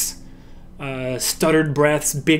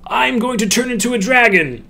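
character line; 8 semitones higher than usual. Shown as a demonstration. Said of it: "line read as a demo".

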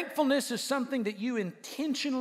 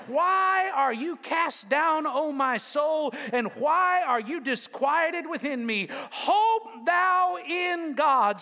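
preaching scripture; 2 semitones higher, slower than usual. Acted. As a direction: stretch every word, preaching hard.

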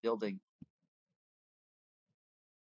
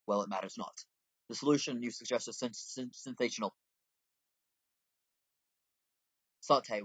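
a hint of old-fashioned tavern customer; lightly voiced game character. Game customer grateful for a scarce local commodity, lightly acted. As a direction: read it in a lightly put-on character voice.

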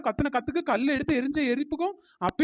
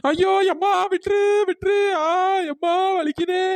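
crying out in pain; 4 semitones higher, 4 dB louder than usual. Acted. Being beaten by bungalow woman.

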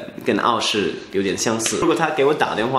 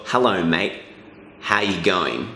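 low, easy Aussie greeting; Australian accent; 5 semitones lower, 3 dB quieter, slower than usual. Shown as a demonstration. Teacher modelling a hello for the learner, Australian accent. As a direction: greet a mate in broad Australian, pitched down. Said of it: "我想他说".

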